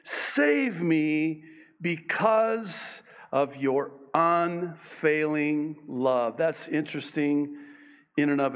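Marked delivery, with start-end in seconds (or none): 0.0-6.4 pleading cry to God. Acted. Psalmist crying out to the Lord, slow raised plea. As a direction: cry out to the Lord for deliverance, drawing it out. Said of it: "he cries out to the Lord and he says".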